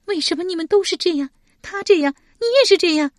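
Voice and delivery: high, loud tearful reproach; crying. A narrator's reading. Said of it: "史佩哭道". (哭着高声质问，越说越响)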